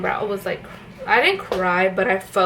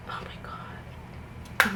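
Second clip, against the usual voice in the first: slow, breathless, softer "oh my God"; shocked whisper; 11 dB quieter, much slower than usual. Real, not acted. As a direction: mouth it in disbelief. Shocked at her own makeup.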